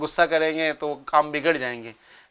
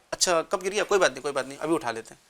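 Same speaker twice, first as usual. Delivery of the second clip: soft, calm reassuring reply, fading quieter; gentle reassurance; 5 dB quieter, faster than usual. Acted. Reassuring a guest who dropped the cup, gentle and softer. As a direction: soothe him kindly, no fuss about the cup. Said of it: "اس کا دوسرا جملہ ہے".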